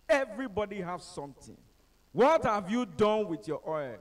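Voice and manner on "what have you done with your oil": preacher's shout. Retold or imitated. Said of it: "He was shouting".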